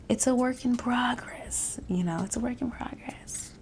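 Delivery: high, thin near whisper, fading; choked up. Real, not acted. Host admitting broken promises to herself, voice high and choked up.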